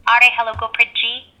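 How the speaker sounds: high, slow attempt at an Indian greeting; Indian-accented hello, drawn out. Shown as a demonstration. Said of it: "I'll try my best to speak with Indian accent".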